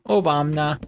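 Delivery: Obama said as "Obamna"; jokey mispronunciation. Pretend.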